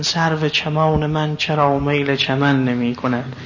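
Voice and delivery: slow, measured recital of a ghazal line; lyric verse recitation. Acted. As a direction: recite the verse unhurriedly, drawing out its syllables. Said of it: "اینا مال حافظه".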